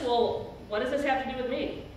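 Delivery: quick offhand shrug of a line, Jesus pushing her away; fast, dismissive "what does this have to do with me"; dismissive brush-off. Shown as a demonstration. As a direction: toss it off fast as if it's none of his business. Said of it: "Not just".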